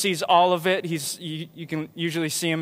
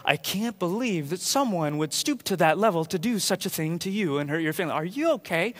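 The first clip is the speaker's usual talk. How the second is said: soft, caring concern; softer, caring friend; sympathetic; 5 dB quieter than usual. Retold or imitated. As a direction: comfort a friend gently. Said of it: "Instead of saying".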